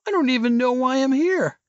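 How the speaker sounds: high surfer voice snapping back; stoned surfer with a sudden edge; edgy retort. Acted. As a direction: hit back at Silas with an edge. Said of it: "The surfer's voice took on an edge".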